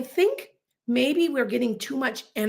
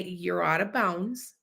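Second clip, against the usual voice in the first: calm firm; 3 semitones lower, 5 dB quieter, slower than usual. Shown as a demonstration. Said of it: "See how I could stay calm".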